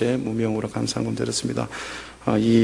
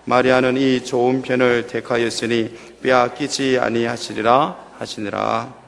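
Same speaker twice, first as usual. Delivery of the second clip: slow, measured Bible reading aloud; scripture reading; slower than usual. Acted. Pastor reading scripture aloud to the church, slow and measured. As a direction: read the passage steadily to the congregation.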